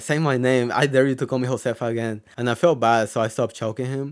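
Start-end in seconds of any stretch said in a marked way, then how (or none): none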